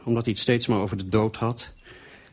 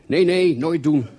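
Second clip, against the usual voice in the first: much higher and louder, urgent no; emphatic warning; 6 semitones higher, 8 dB louder, slower than usual. A narrator's reading. Warning friend not to question his wife, emphatic. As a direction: stop him hard with emphasis. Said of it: "ontraadde ik met grote nadruk".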